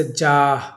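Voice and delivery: جاہ with long aa and an audible h at the end; sounded final h. Shown as a demonstration. Teacher giving an example of hae malfoozi, sounded final h. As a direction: breathe out the closing ہ of جاہ. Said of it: "جو تلفظ میں آئے".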